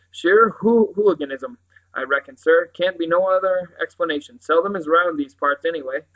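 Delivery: loud, emphatic sergeant; police sergeant, decisive. Acted. Sergeant gives Father his verdict, decisive. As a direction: pronounce your verdict as the local sergeant.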